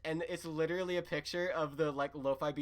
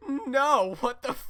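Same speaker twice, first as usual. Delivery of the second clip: much higher and louder outburst; mock shout; 9 semitones higher, 10 dB louder, slower than usual. Connie refusing Steven's proposal, shouting. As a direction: yell it like a shocked refusal.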